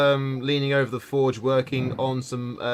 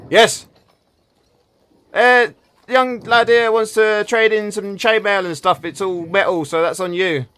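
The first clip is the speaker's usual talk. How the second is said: higher, louder slow gnome; 8 semitones higher, 7 dB louder than usual. Acted. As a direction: talk up to the dwarf. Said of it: "looks around and goes like".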